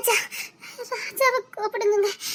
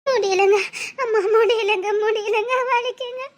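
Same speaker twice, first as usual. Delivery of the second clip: crying out in pain. Acted. Wife crying out in labour.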